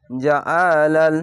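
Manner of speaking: জাআলাল with a thick ain squeezed from the throat, drawn out slowly. Shown as a demonstration. Quran teacher showing students a thick, throat-squeezed ain. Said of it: "আইনটিকে মোটা করে গলা চিপে পড়বেন".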